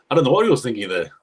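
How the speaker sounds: exasperated quick repeat. Real, not acted.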